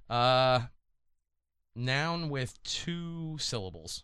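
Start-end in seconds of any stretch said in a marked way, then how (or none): 1.7-4.0 soft, slow, mumbled under the breath; soft and slow, not reaching the listener; too quiet. Real, not acted. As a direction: say it barely above a murmur. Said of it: "I can't hear you".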